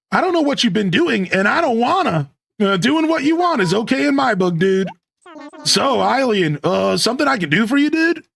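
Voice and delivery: high, easygoing California surfer dude; California surfer accent. Acted. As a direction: play a mellow California dude. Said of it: "This is how I would talk if I went to California".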